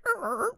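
high vocal sound effect of music cutting out; imitated music stop. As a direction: mimic the music screeching to a halt. Imitates party music stopping.

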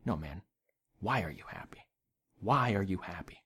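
low, soft and serious; intense quiet question. Retold or imitated. Bartender leaning in close to press the customer, low and quiet. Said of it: "he leans in really close to me".

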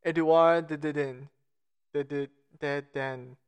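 slow, stumbling go at "Edouard de Dedain"; botched name attempt. Real, not acted. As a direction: sound out "Edouard de Dedain" slowly, repeating "de" as you falter. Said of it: "I'm going to botch this".

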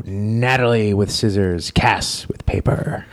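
lightly voiced sports commentary, trailing into a slow finish; a touch of hushed match commentary; play-by-play commentator. Commentator reports the players' throws, mock play-by-play.

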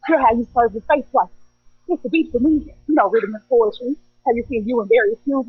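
rhythmic spoken word performance; spoken word poem. Acted. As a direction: perform it like slam poetry.

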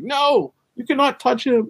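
high protective yell; shout, shielding your friend. Retold or imitated.

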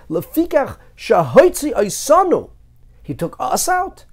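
Lefikach shehotzi osanu said high, loud and slow; italicized emphasis. Shown as a demonstration. Explaining to students, stressing the italicized words. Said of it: "it's italicized".

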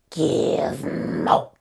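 gremlin voice. Shown as a demonstration. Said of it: "The whole plot of Gremlins in four impressions".

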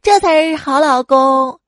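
mock smug satisfaction; pleased humph. Wife pleased by her husband's promise, lightly smug. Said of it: "他老婆听了之后特别高兴啊".

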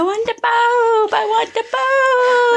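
put-on high, slow baby voice; slow, cooing baby talk.

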